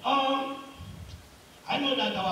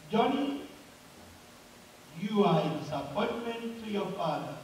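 echoing voice; 2 semitones lower, 6 dB quieter than usual. Acted. Mountain answers the crying boy, softer acted echo. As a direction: repeat it as a fading echo. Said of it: "Then the voice came back again".

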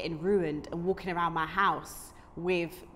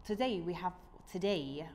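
tentative, softer try at Brummie; Birmingham accent; 7 dB quieter than usual. Shown as a demonstration. Host retrying her guest intro, tentative Brummie accent. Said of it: "do it in a Brom accent".

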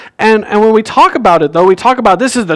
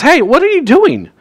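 mock scolding; 6 semitones higher than usual. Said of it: "he scolds him".

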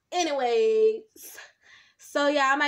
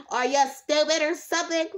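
mock snotty put-down; 2 semitones higher than usual. Herself imagining snapping at a viewer, mock snotty. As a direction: sneer it like a bratty viewer. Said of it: "I would be like".

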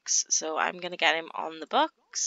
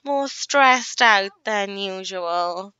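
higher, slow concerned mother; a mum checking on her daughter, slow and high; caring mum voice; 8 semitones higher, 4 dB louder than usual. Acted. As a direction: fuss over her daughter gently. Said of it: "she's gonna be like".

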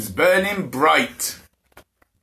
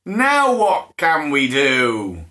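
bored roar; 5 semitones higher, 3 dB louder, slower than usual. Acted. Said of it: "Bushy roared".

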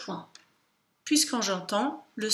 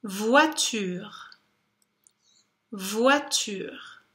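careful dictation; much slower than usual. Shown as a demonstration. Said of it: "en disant le mot".

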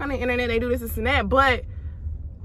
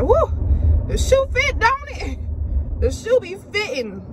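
teasing gloat; 10 semitones higher, slower than usual. Retold or imitated. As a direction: needle them with a gleeful taunt. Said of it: "I be like".

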